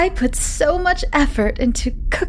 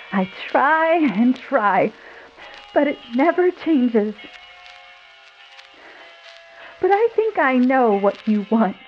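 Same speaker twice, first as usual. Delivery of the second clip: high, wavering wife voice; trembling voice; 6 semitones higher than usual. Acted. Wife talking to Michael from the kitchen, trembling high voice. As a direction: quiver through it, barely holding together. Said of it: "in a trembling voice".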